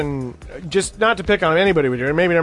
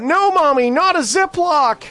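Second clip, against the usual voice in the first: mock six-year-old's outcry, higher and slow; child crying out; 10 semitones higher, slower than usual. Six-year-old son protesting to his mommy, mock high outcry. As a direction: play the kid protesting, pitched up and dragged out. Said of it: "he screamed out".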